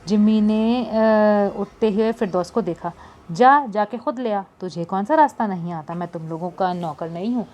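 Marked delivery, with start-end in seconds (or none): 3.3-7.5 lightly voiced angry young man. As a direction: snap back at her, mildly annoyed. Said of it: "Jimmy गुस्से से बोला".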